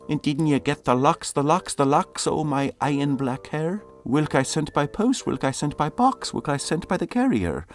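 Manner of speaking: loud, high earnest suitor; pleading lover. Acted. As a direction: press the lady with each question.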